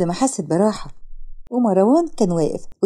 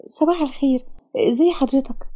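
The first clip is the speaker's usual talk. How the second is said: lightly voiced shy girl; 4 semitones higher than usual. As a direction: play the shy tearful girl, timid. Sara voiced high and soft. (بنت خجولة بصوت أعلى وأهدى)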